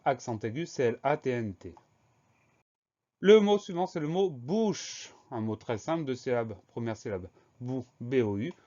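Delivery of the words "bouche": "bouche" drawn out, with a long final "ch"; slow dictation. Shown as a demonstration. Teacher presenting a very simple word, slowly drawn out. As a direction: stretch "bouche" slowly for learners to spell.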